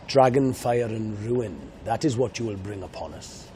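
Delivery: grave film line in a Welsh accent. Shown as a demonstration. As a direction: read the dragon line as a Welshman, solemn. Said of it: "That's my Welsh accent".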